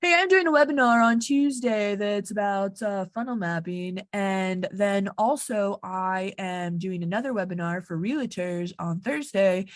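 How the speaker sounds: stiff, impersonal webinar announcement read to a best friend. Pretend. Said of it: "Let's go back to that voice".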